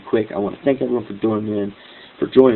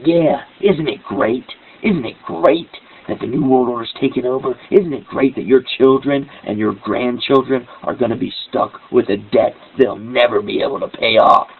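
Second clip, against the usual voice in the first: sarcastic echo of her gloating; 2 semitones higher than usual. Retold or imitated. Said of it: "I was being sarcastic".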